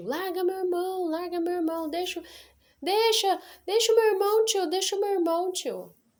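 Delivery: play-acted, very high-pitched, repeated shouted yelling. Retelling shouting at an uncle to let go of a brother: imitating own past shouting. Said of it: "eu comecei a gritar pro meu tio".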